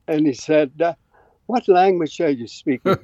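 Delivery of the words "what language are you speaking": imitated upper English accent, pitched up; higher, lightly mocked upper English accent. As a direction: mimic a puzzled upper English professor. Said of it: "upper English, uh, accent".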